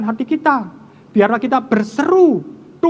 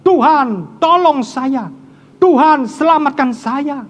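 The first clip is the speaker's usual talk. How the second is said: crying out to God; 4 semitones higher, 3 dB louder, slower than usual. Acted. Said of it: "Berserulah kepada Tuhan".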